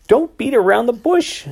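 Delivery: high, loud impatient snap; snapping at him to get to the point; sharp snap. A narrator's reading. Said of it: "she snapped".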